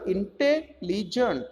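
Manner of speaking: "intelligent" broken into two parts, inte and ligent; split into syllables. Shown as a demonstration. Teacher showing the parts of a word, "intelligent" split in two. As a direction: say "intelligent" in two chunks with a gap between. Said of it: "two syllable".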